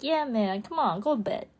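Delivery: lightly voiced chill dude; a hint of a surfer dude urging sleep; dude-speak body voice. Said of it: "It's like".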